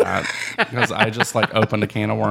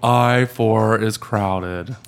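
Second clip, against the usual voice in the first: mock traffic reporter; much slower than usual. Playing traffic reporter on air.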